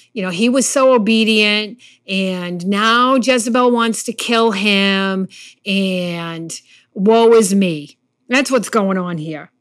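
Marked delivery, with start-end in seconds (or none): 5.6-8.0 slow, whiny woe-is-me; mock self-pity. Pastor mocking Elijah's self-pity, slow whine. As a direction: drag it out like a sulking prophet. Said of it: "I call this the wah wahs".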